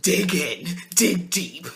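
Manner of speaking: lightly mimicked coaching, clearly amused; mocking Olivia's talk. Podcaster imitating Olivia coaching him on jokes, gently mocking. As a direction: poke fun at her way of talking. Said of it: "what is with Olivia and her talk".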